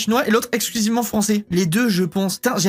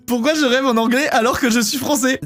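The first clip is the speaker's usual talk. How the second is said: reading it out through laughter; laughing in disbelief as you read it; 3 semitones higher than usual. Real, not acted. Reading a chat question, laughing.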